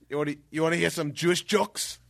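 imitated Austrian German accent. Holistic healer in the hot tub offers jokes, in a light Austrian German accent. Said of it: "very Australian German accent".

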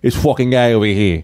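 low New York Italian-American gripe. Acted. Guest shows Italian flamboyance, mock Italian-American accent. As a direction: put on an Italian-American wise guy. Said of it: "little Italian flamboyance".

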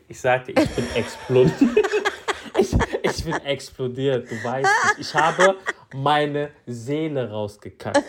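laughing while telling it; lachend. Real, not acted. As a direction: struggle through the words with laughter. Cracking up over own story. (lachend erzählt)

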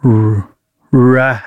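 r- then rat, blended; sounding out rat; sounding out words. Real, not acted. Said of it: "seg-, what?".

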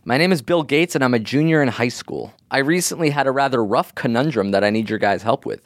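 landscaper voice. Pretend. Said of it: "Now you're doing a voice of somebody you assume is a landscaper".

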